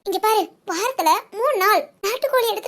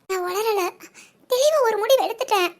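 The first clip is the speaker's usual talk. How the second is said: tearful. Acted. Tearful woman tells her friend she has decided to leave, through tears. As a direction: hold back a sob while insisting.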